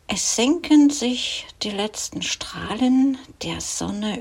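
measured poetry reading with pauses between phrases; poem recitation. Acted. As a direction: recite the evening poem line by line, letting each image settle.

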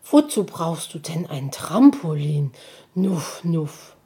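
leicht verwundert, mit Igelschnaufen; erstaunt. Acted. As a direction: frag verwundert. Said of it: "hörbar erstaunt". (Igelmutter fragt ihren Sohn erstaunt)

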